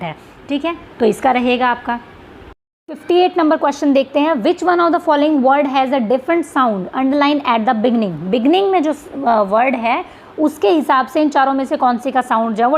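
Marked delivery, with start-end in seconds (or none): 4.4-8.2 reading the question aloud slowly; spelling out an exam question to students. Shown as a demonstration. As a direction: read each word of the question out deliberately.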